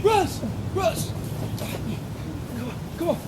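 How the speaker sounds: high, called name urgently; calling out. Acted. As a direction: call him over, urgent. Calling out to teammate.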